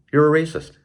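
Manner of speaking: high-pitched scolding accusation; mock accuser. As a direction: play the shrill accuser snapping back.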